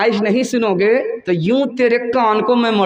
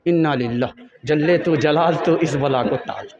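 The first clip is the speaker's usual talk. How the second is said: lower, pleading lament; woeful lament; 5 semitones lower than usual. Acted. Daughter to her mother about the mother-in-law, a woeful lament. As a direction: groan it out as a prayer against a curse.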